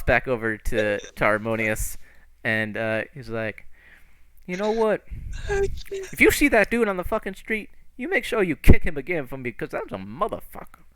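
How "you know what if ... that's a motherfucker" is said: high-pitched worked-up order; acted vengeful urging; indignant instruction. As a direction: urge a friend on, voice raised high. Character gives vengeful instruction.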